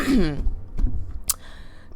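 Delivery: clearing the throat before a voice; loud throat clear. Acted. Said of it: "gotta make my voice deep".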